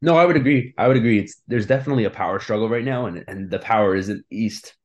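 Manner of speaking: strained, failing voice; voice giving out. Real, not acted. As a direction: talk through a worn-out throat. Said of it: "my voice is giving out right now".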